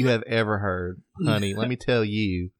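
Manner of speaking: sassy, campy Southern twang; gay redneck accent. Shown as a demonstration. Co-host brags about his impression, gay redneck accent. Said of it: "I do the best gay redneck".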